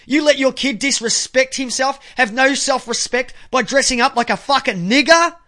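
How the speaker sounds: acted-out angry dressing-down of a parent; imagined confrontation. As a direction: dare him to fight, getting hotter each line. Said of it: "you say".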